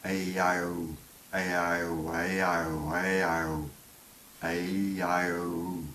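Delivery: vowels run together into one gliding chain; vowel cycle. Shown as a demonstration. Teacher showing the mouth cycle, vowel cycle. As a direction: glide from vowel to vowel without a break. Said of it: "they make a nice little, uh, cycle".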